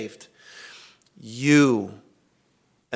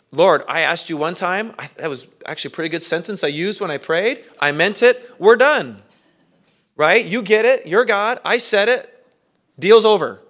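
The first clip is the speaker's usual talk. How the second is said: mock flippant prayer; 4 semitones higher than usual. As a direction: brush God off like a done deal. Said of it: "like, I like to pray".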